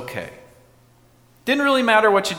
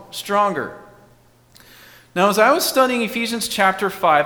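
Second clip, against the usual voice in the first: ordinary talk, nothing marked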